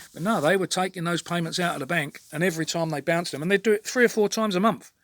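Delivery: real frustration starting to boil; building real annoyance; getting worked up. Real, not acted. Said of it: "I'm getting all fucking worked up now".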